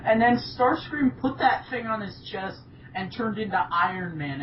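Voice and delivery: ordinary delivery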